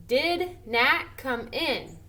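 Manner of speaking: slow, stressed reading of the question; question read slowly. Shown as a demonstration. Teacher slowly reading the sentence to the class. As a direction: read it out slowly, leaning on did. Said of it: "This is saying it like".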